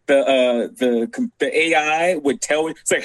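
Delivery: normal talking voice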